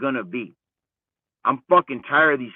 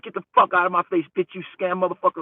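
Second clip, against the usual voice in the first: mock aggressive; 5 semitones higher, faster than usual. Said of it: "all aggressive where I'm like".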